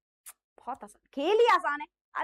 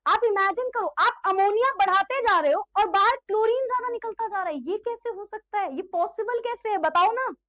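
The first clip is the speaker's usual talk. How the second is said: excited puzzle; 4 semitones higher than usual. Real, not acted. Teacher posing puzzle excitedly.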